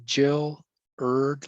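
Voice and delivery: "Jill Erd" as two separate syllables; "Jill Erd" with a J sound, sounded out; syllable-by-syllable pronunciation. Shown as a demonstration. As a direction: break the name into "Jill" and "Erd". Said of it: "my name is pronounced".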